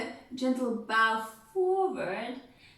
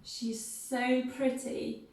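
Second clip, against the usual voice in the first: proud mother; 2 semitones higher, slower than usual. Shown as a demonstration. Missus Bennet praising her girls, fond and showy. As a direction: brag about the daughters like a doting mother. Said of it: "she's gonna go".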